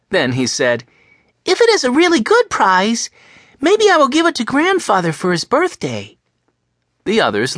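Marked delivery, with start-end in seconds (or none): 1.5-6.2 put-on high, bright little boy's voice; young boy voice. Reader voices little Benny hoping for a prize. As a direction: play Benny as an eager small boy.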